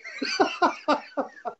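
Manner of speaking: high laugh trailing after the punchline; real laughter. Real, not acted. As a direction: crack up at your own story. Laughing at his own punchline.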